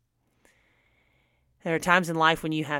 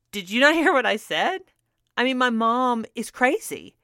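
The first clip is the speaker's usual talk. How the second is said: fast, higher, indignant retold rant; a lively retold rant, pitched up and quick; 6 semitones higher, 3 dB louder than usual. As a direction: protest in a rush. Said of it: "And I ranted for a while longer".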